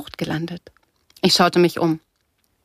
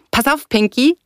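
high, louder heads-up; shouted warning; 6 semitones higher, 5 dB louder than usual. A narrator's reading. Surfer warning Pinky on the wave, called out. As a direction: call out a quick warning. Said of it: "rief er".

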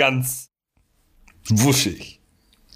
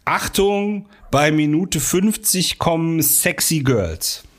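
slow drawn-out teaser line; trailer announcement; 4 semitones higher, slower than usual. Pretend. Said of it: "Sowas wie". (langsame Ankündigung)

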